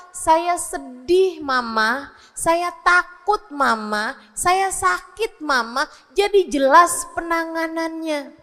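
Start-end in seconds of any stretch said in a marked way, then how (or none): 0.1-5.8 lightly voiced child, slow singsong phrases; child telling mother. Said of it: "dia bisa ngasih tahu".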